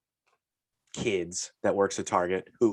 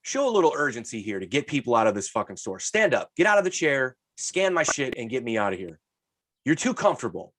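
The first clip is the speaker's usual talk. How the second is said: annoyed customer; 3 semitones higher than usual. Retold or imitated. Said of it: "I wanna go".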